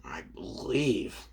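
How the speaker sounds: breathy hushed lead-in, slow; ominous whisper. Acted. Suku whispering ominously to the heroes. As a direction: whisper slowly before revealing. Suku speaks in retold fight.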